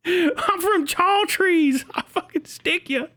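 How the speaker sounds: very slow, high hick threat; slow, high hick warning; desert hick voice. Retold or imitated. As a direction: drag out a menacing boast.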